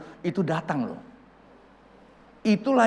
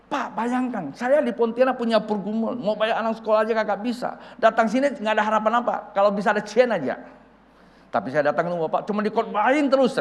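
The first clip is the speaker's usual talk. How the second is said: retold venting, higher than usual; venting to pastor; 5 semitones higher than usual. Younger minister unloading his struggles on senior pastor, venting. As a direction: pour out a pent-up complaint, raised pitch. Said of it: "Saya mulai curhat".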